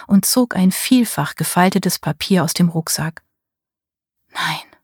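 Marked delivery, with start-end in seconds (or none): 4.3-4.8 ein leises, gemurmeltes Nein; fast lautlos vor sich hin sagen. A narrator's reading. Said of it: "murmelte sie". (Marie murmelt beim Einrichtungsplan leise vor sich hin)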